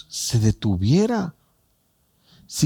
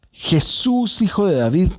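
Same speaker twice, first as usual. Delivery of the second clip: pleading call, pitched up high; crying out; 6 semitones higher than usual. Retold or imitated. Blind man crying out to Jesus, pleading call. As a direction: call out for mercy from the roadside. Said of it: "gritó".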